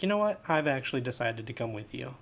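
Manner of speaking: a playful mock of the companion changing her mind; mock Nia quote. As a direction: imitate her sudden change of heart, hammed up. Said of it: "she's gonna be like".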